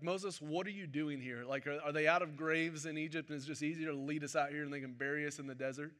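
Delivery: sarcastic. Retold or imitated. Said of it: "That's a little sarcasm".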